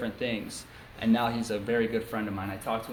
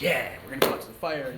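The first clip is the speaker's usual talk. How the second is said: mildly eager, acted-out cheer; retold excitement; 2 semitones higher than usual. Little brother keen to go out to the fire, excited. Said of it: "I'm just so excited".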